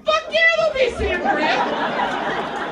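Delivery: loud, high, drawn-out whoop; hyped-up party bro. Acted. Guy thrilled about sangria at bachelor party, hammed-up cheer. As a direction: cheer it like an over-excited bro.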